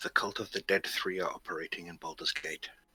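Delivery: speaking low and close. Player in character discreetly tells the Vigilant One about a cult, in a lowered voice. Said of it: "I will lower my voice at this point".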